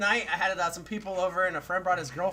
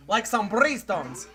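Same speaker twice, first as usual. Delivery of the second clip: mock Mexican accent; 3 dB louder, much slower than usual. Shown as a demonstration. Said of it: "I went Mexican with it".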